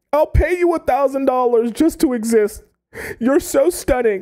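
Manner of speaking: put-on shrill, very high yell. Retelling a man on his knees in Walmart, imitating him yelling. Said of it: "He's like yelling now".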